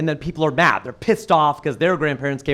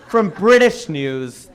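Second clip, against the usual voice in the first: slow emphatic; much slower than usual. Real, not acted. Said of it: "All right?".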